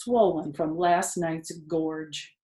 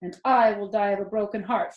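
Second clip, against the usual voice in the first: a lightly voiced pig, sincere; mean every word of it; Wilbur's earnest plea; 2 semitones higher, 4 dB louder than usual. Wilbur telling the rat he will die heartbroken, earnest. Wilbur's own line, later mocked.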